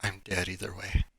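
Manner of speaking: muttered under the breath; mumbled. Acted. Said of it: "mumbles under his breath".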